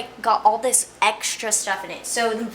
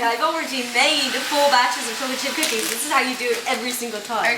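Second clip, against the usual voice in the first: mock British accent; faster than usual. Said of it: "talking in a British accent".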